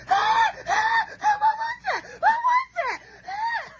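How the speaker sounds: piercingly high, loud imitated screams; screaming bloody murder. Imitating friend panicking at the wipers, screaming bloody murder. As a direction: shriek in hammed-up hysterical panic. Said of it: "she screams bloody murder".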